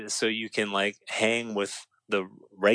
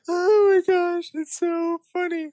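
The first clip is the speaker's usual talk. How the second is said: laughing; 3 dB louder, slower than usual. Real, not acted. Laughing after retelling joke.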